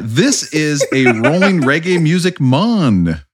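slow, hammed-up Jamaican accent. Host answering about the reggae album, playful Jamaican accent. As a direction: laugh through a drawn-out mock Jamaican accent. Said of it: "I did not wanna do the accent".

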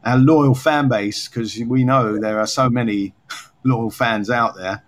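lightly tongue-in-cheek, with a small laugh; gently mock your own praise, drawing out the end; slightly sarcastic. Real, not acted. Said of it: "I'm being slightly sarcastic there".

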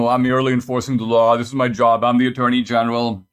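fast, lightly voiced bureaucrat brushing it off; mock official excuse. Host mocking the attorney general's excuse, fast and lightly voiced. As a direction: toss off the excuse like a dismissive official. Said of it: "uh, Garland".

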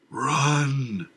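shout. Acted. Madman shouts.

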